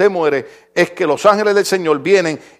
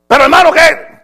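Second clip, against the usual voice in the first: mock doubter; 8 semitones higher, 5 dB louder than usual. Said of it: "critic's voice in dialogue".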